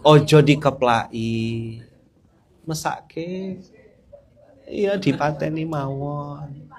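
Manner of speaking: slow, drawn-out Javanese phrasing; mock gentle Javanese; a light Javanese lilt; Javanese speech. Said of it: "Mana yang ngomong Jawa?".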